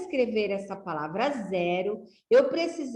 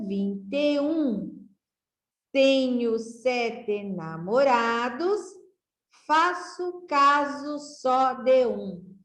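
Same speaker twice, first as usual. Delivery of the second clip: slow reading aloud; 2 semitones higher, slower than usual. Shown as a demonstration. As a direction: read the rhyme out slowly, syllable by syllable. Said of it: "Vamos lá de novo?".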